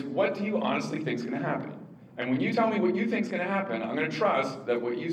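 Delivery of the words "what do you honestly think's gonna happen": sincere question. Shown as a demonstration. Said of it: "the hardest one to do is".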